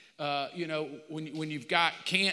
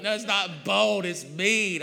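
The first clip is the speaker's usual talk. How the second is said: mock retort; 2 semitones higher, 5 dB louder than usual. Wife retorting, retold.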